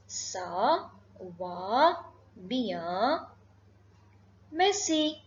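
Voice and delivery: "Ça va bien, merci" broken by long pauses; word-by-word demonstration. Shown as a demonstration. Teacher modelling the reply for learners, word-by-word demonstration. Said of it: "you have to say".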